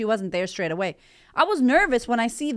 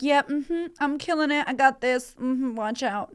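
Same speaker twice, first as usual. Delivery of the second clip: higher, smug mock swagger; mock cocky; 5 semitones higher than usual. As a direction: play the smug winner who has it all handled. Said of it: "So I'm not like".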